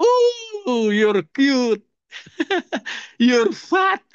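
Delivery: put-on high, piping little girl blurting it out; child's voice. Preacher voicing his young niece greeting him, high and innocent. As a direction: chirp it like a small niece.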